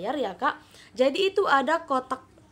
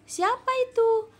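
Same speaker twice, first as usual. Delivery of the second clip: put-on much higher questioning girl's voice; Jamila asking; 12 semitones higher, 3 dB louder than usual. Shown as a demonstration. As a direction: ask eagerly as Jamila. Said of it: "Jamila bertanya lagi".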